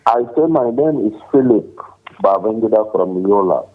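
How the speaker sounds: raising the voice a little on the phone; shouting into a phone. Real, not acted. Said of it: "Please speak up, I can't hear you".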